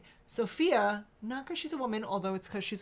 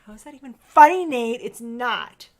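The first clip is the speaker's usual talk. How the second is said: mock scolding; 4 semitones higher, 13 dB louder than usual. Mother scolds son, loud.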